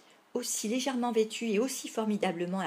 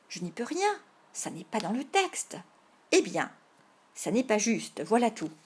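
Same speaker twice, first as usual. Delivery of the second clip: put-on raised protesting child's quarrel; squabbling over rules; 4 dB louder than usual. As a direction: object loudly that it isn't fair. Boys squabble over the script.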